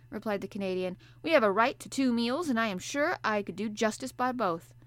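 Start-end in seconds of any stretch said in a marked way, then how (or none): 1.2-4.7 louder, higher blunt sailor voice; a sleepy sailor answering the professor; gruff harpooner. Acted. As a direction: play the bluff Canadian harpooner, hearty and loud. Ned Land voiced.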